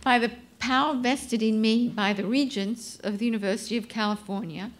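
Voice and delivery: measured, ceremonial conferral; formal proclamation. Acted. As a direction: read it like an official decree.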